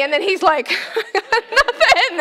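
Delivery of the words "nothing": high, playful husband voice; hammed-up empty answer; mock husband reply. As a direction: toss it off lightly.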